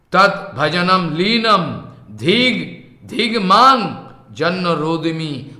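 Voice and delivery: measured, drawn-out Sanskrit recitation; verse recitation. Acted. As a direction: recite the verse slowly, stretching the long syllables.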